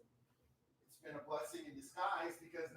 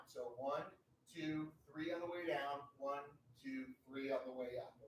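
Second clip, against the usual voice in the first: slow count demo; 2 semitones lower than usual. Shown as a demonstration. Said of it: "These are very slow reps".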